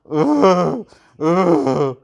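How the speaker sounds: mock sobs. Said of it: "My mom, she goes".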